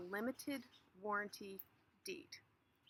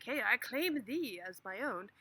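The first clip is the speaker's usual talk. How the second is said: slow, louder, mock-royal claim; grand proclamation; 6 dB louder, slower than usual. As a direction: announce it like a hammy king. Acting out claiming land.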